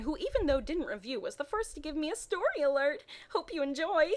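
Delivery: put-on high, eager teen writer voice; gushing fanfic author voice. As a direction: read it like an excited young author. Reads the author's note aloud.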